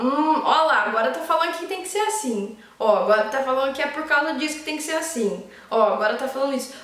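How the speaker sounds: chuckling, lightly mocking commentary; amused detached observer. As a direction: watch your own ego with a laugh. (observando o próprio ego, rindo de leve)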